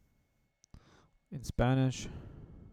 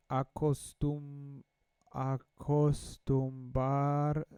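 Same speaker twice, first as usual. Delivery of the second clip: slow halting reading; slower than usual. Shown as a demonstration. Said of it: "let's try to read it in Spanish".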